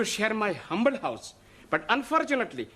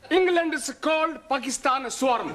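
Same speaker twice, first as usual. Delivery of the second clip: excited blurt; 4 semitones higher than usual. Acted. Excited classroom outburst.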